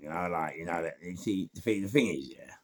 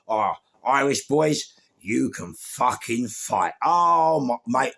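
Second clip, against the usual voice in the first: slow, loud, higher-pitched awe; loud marvelling; 5 semitones higher, 7 dB louder, slower than usual. Real, not acted. Storyteller recalling an Irish brawl, loud marvelling. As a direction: draw it out in loud amazement. Marvelling at remembered club fight.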